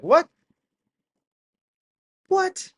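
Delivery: high, puzzled what; bewildered high-pitched what; baffled what. Real, not acted. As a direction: sound truly baffled. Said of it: "I'm just like".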